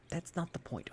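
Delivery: mild indignant protest. A narrator's reading. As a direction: push back indignantly. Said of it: "Arthur protested".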